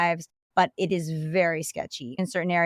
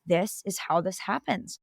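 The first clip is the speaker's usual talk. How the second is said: shocked; 6 dB quieter than usual. Retold or imitated. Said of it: "I was really shocked".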